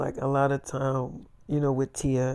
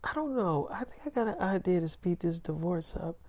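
put-on high girlfriend voice; 4 semitones higher than usual. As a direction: play her hesitant, pitched up. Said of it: "she's like".

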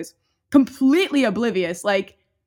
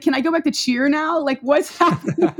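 higher mock-baffled kid, breaking into a laugh; clueless impatience; 5 semitones higher, 4 dB louder than usual. Ten-year-old told of cancer wants cheer, retold clueless impatience.

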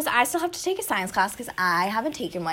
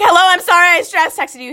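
sheepish apology; 11 semitones higher, 11 dB louder than usual. Retold or imitated. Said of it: "I'm like".

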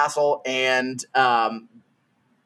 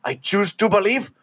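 robot guy voice; 8 semitones higher than usual. Retold or imitated. Retold robot guy's one-liner.

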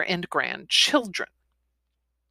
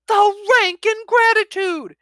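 high, loud indignant outburst; hammed-up high outraged grandfather; outraged dragon; 13 semitones higher, 7 dB louder than usual. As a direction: sputter with offended fury. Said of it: "His temper flared".

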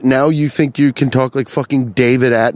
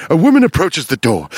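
ominous true crime read; hint of crime documentary voice; sinister crime narrator; 3 semitones higher, faster than usual. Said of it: "now it sounds like".

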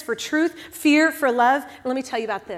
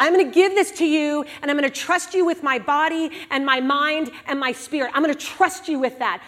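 climbing from confession to fervent trust; earnest prayer. Retold or imitated. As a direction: pour it out to God with mounting intensity. Voicing a prayer of surrender.

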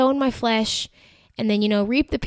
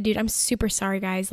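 not sassy, apologetic; 5 dB quieter than usual. Retold or imitated. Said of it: "I didn't say it sassy".

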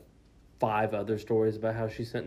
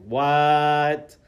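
long, loud, higher mock shock; shocked disbelief; 5 semitones higher, 11 dB louder than usual. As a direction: hold the word out, utterly stunned. Retelling shock at older men.

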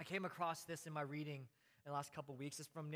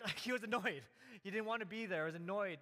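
higher and louder, with a laugh in the voice; emphatic insistence; 3 semitones higher, 5 dB louder than usual. Real, not acted. Preacher driving home to the congregation that Paul was annoyed, louder and higher.

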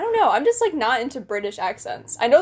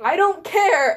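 higher-pitched mock lovestruck protest; lightly put-on dismissive cry; Bella; 7 semitones higher, 4 dB louder, slower than usual. Retelling Twilight to a friend, mock-dramatic Bella. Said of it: "And then she's like".

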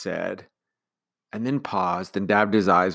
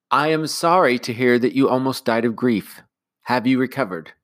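lightly raised, proper nanny; stiffly polite concern; prim nanny; 5 semitones higher, 5 dB louder than usual. Acted. Nanny to the commander, lightly prim concern.

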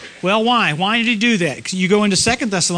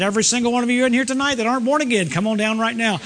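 imagined altar call; 3 semitones higher than usual. Retold or imitated. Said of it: "got a microphone and said".

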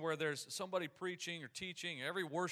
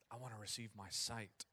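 low, soft, earnest reply; hushed acted plea; quiet humble request; 5 semitones lower, 8 dB quieter than usual. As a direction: answer softly, voice dropped low. Blind man's humble answer to Jesus.

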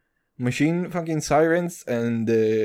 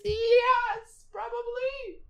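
squeaky aside; 4 dB quieter, much slower than usual. Acted. Squeaky self-mocking answer.

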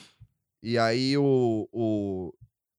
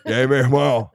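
Rio street slang; 6 dB louder than usual. Retold or imitated. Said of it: "imagina o lobo com sotaque carioca".

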